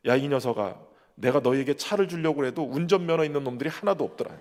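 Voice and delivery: a lightly voiced fatherly God teasing; God answering. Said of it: "그때 하나님이 응답하시더래요".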